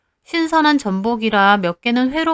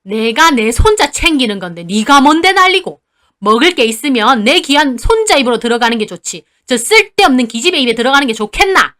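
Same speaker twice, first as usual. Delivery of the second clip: angry grandma; 5 dB louder than usual. Acted. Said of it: "할머니도 덩달아 따지셨어요".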